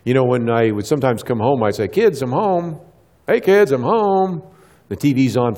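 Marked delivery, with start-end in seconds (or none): 1.9-2.8 higher-pitched homecoming call; mildly acted call to the kids. Dad announcing himself to his kids, calling out. Parent calling out on coming home. 3.3-4.4 high, slow, drawn-out call; insistent calling out. Retold or imitated. Dad trying to reach kids glued to TV, calling out. Parent calls again, unheard by kids.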